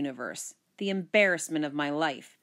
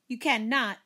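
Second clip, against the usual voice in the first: higher-pitched indignant denial; mild sibling protest, pitched up; 5 semitones higher than usual. Acted. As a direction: protest it to your brother. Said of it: "I protested".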